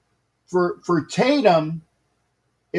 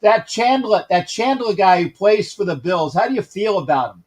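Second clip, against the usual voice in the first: put-on Bronx accent. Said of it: "'cause I'm trying to do the Bronx accent".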